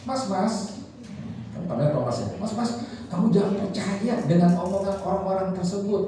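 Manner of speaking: put-on mother telling young Thomas not to believe the bullies; encouraging mother. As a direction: lift up a bullied son. Edison's mother encouraging her son.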